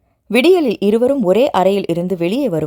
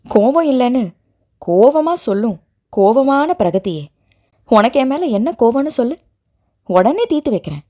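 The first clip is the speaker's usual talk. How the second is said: mocking; 3 semitones higher than usual. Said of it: "என்று கேலியாக சொன்னவளை".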